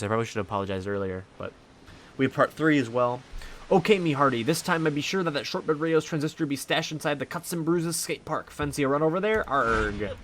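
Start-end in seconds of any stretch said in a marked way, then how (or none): 3.7-10.1 high, hammy pirate captain. Acted. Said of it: "the pirate voice".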